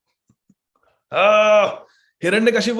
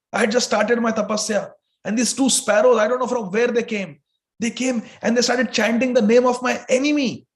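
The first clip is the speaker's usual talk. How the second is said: angry demon king; 3 semitones higher than usual. Acted. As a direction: complain hotly to your wife. Demon tells wife angrily.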